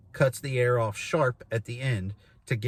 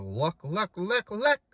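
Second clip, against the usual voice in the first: luck calls climbing higher each time; rising goose scale; 6 semitones higher, slower than usual. Shown as a demonstration. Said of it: "Low, a little bit higher".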